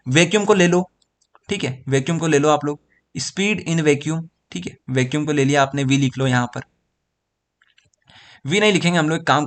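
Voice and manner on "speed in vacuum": "speed in vacuum" stretched very slowly, a slight rise at the end; slow dictation. Shown as a demonstration. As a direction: say it slowly for notes. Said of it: "तो आप लोग क्या बोलोगे?".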